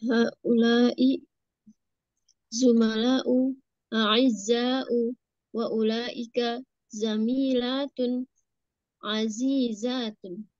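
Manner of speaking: "Haulai" stretched with long vowels; over enunciating. Shown as a demonstration. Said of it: "panjangkan saja supaya terasa". (membaca bahasa Arab dengan vokal dipanjangkan)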